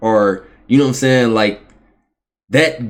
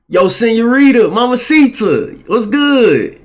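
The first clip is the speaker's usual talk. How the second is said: much higher, louder hood catcall in Spanish; hood guy impression; 11 semitones higher, 4 dB louder, slower than usual. Mimicking hood guys throwing Spanish at women, loud hood voice. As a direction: call it out big, stretching "mamacita". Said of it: "hood niggas be like".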